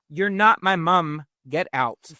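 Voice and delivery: loud, slow angry shout. Retold or imitated. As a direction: yell at her to leave. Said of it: "Joe shouts".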